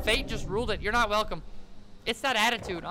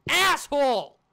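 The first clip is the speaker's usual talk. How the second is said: loud, raised-pitch curse; indignant yell; 3 semitones higher, 6 dB louder, slower than usual. Real, not acted. Player cursing the one who yelled at them, indignant yell. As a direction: yell it at whoever startled you.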